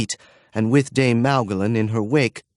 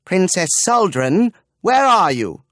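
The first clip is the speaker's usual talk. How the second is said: high, louder call; 9 semitones higher, 5 dB louder than usual. Acted. Dame calling into the empty bedchamber. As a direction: call her out of hiding. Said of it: "looked into the bedchamber".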